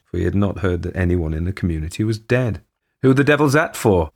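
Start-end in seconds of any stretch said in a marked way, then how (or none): 3.0-4.1 startled, raised voice; said aloud. Acted. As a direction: blurt it out in surprise. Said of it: "he said aloud".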